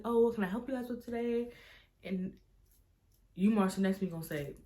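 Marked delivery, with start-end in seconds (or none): 0.0-1.5 high, polite customer-service voice; nice waitress. Retold or imitated. Waitress taking the table's order, nice and high-pitched. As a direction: imitate a helpful server up high. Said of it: "she was being so nice".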